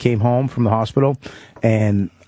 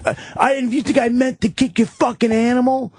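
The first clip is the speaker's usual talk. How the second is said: much higher mock voice of the homeless guy; 12 semitones higher than usual. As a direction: squeal it back defensively, way up high. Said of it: "And he's like".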